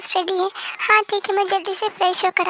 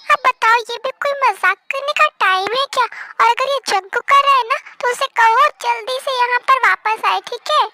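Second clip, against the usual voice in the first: irritated scolding; 4 dB louder than usual. Acted. Angry at prank caller.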